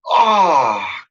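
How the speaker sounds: drawn-out falling mock groan; imitation of a speechless man's sigh; stunned "ah". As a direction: let out a dazed, sliding "ahh". Imitating the stunned border guard's reaction.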